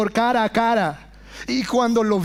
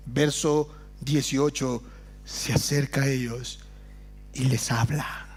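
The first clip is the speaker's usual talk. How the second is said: much softer and lower, breathless wonder; awed hush; 8 semitones lower, 8 dB quieter than usual. Real, not acted. Preacher marvelling to the congregation that Jesus speaks, hushed awe. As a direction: whisper it like a secret that moves you. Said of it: "Wow, hermanos".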